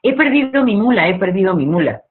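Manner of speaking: a man crying out loudly in high panic; desperate shout. A narrator's reading. A desperate man at the market shouting for his mule, high and loud. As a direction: shout it, lost in the crowded market. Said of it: "empieza a gritar".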